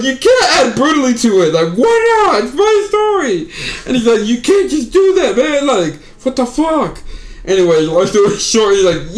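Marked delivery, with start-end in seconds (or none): 0.0-7.0 high-pitched quote pushed out between laughs; laughing through the quote. Real, not acted. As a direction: try to get the words out while cracking up. Retells punchline while laughing.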